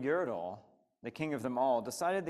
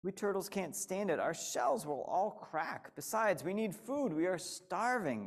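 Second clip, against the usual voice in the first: higher, pained plea; groaning little turtle; 5 semitones higher than usual. Acted. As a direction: plead through the pain. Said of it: "groaned Mac".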